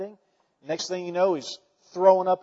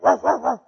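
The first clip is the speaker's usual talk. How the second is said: imitated barking; 5 semitones higher, 7 dB louder than usual. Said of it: "she barks at the kids".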